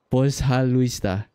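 "pozhaluista" slowly, syllables stretched; demonstrating Russian. Shown as a demonstration. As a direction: show how "pozhaluista" sounds, taking it slow. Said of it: "You're welcome is".

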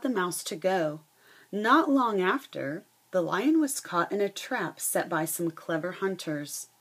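lively read-aloud storytelling voice; reading a picture book to the class; story narration. A narrator's reading. Teacher reading a fable to her students, lively storytelling.

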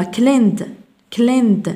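"cleaned" in one syllable ending in D; silent E. Shown as a demonstration. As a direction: drop the E in "cleaned", straight from N to D. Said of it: "وكأن ال إي غير موجودة". (نطق "cleaned" بدال دون لفظ الإي)

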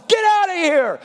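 high, loud furious command; angry shout. Acted. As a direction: drive the cheats out. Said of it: "temple and says".

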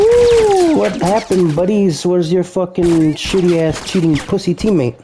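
sneering, high mocking taunt. Real, not acted. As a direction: jeer at them with a singsong sneer. Taunting the enemy team.

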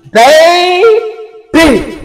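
put-on Baltimore "Baby." stretched out long with a falling tune, sounding like "bay-bee"; a drawn-out West Baltimore "Baby." opening the reading. To viewers, a drawn-out West Baltimore "Baby.". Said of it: "that's how they say it down in Baltimore".

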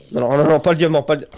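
loud, urgent repeated no; real loud in-game panic; panicked protest. Real, not acted. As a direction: cry out in alarm, cut short. Panics about losing diamonds.

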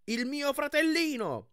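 high, loud proclaiming; loud speech. Acted. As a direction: proclaim it so all can hear. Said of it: "conclusi forte".

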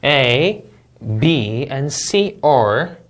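slow, "A, B, and C are" read as one unit; grouped reading. Shown as a demonstration. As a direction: tie the subject to the verb. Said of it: "이렇게 묶어서 읽어주세요". (묶어 읽기 시범)

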